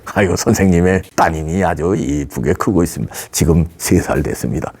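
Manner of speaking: mild North Korean dialect, breaking news slyly; a hint of a North Korean agent; North Korean accent. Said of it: "사투리가 잘 안 되네".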